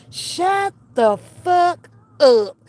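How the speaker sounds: very slow, word-by-word command; emphatic scolding. Pretend. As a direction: space out every word to silence them. Imagined scolding, emphatic repeat.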